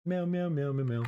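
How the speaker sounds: high, cutesy kitty meows; cat meow. Shown as a demonstration. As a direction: meow like a playful kitten. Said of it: "cat meows on stream".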